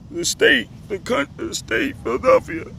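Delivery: high, squeaky mock explanation; put-on high-pitched silly certainty. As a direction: jump into falsetto to ridicule the idea. Mocks the idea of Philadelphia the state.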